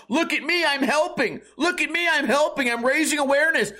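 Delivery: mock the show-off do-gooder; sarcastic high-pitched parody of a smug activist; mocking narcissist. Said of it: "like, narcissistic".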